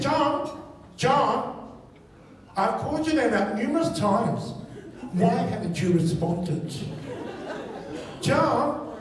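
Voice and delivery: lightly voiced scolding mother; mildly exasperated mock-mother scolding; embarrassed, angry mom. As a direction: imitate a mom's prim telling-off. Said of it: "she was embarrassed and also angry as well".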